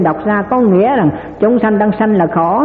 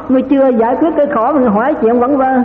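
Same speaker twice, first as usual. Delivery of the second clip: chiding rebuke; 5 semitones higher, faster than usual. Acted. Rebuking the man who asks idle questions.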